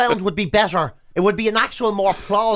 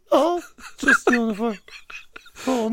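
mock whiny excuse; 4 semitones higher, slower than usual. Mock tax dodger whining.

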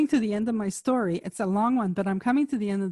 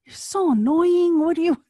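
exasperated mock whisper; 8 semitones higher, 6 dB louder than usual. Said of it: "I was like".

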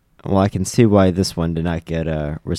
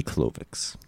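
unvoiced, far softer whisper of the name; hushed reveal; 9 semitones lower, 13 dB quieter than usual. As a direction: breathe the villain's name in dread. Dramatic reveal of villain's name.

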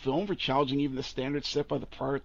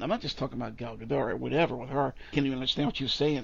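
ordinary talk

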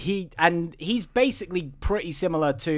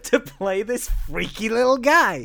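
higher pitch, amused and excited; mock casting brainwave; 7 semitones higher than usual. Co-host voicing Hollywood casting this freaky little guy, amused excitement. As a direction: pitch the bright idea while breaking into laughter.

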